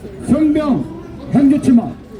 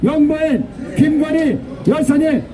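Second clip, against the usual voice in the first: shrill echoing propaganda broadcast; 3 semitones higher than usual. Real, not acted. Rally chant leader.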